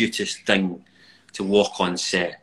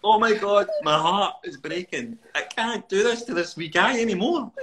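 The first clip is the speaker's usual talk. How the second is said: heartbroken; 10 semitones higher, 3 dB louder than usual. Retold or imitated. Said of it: "And I'm like".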